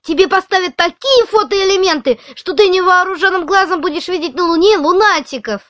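high, gentle comforting voice; reassuring. Acted. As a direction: soothe a scared friend. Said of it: "Не надо меня успокаивать".

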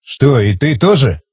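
slow, mildly astonished query; surprised question. A narrator's reading. Tigran questioning the old man, mildly surprised. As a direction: draw it out with a touch of surprise. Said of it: "удивился Тигран".

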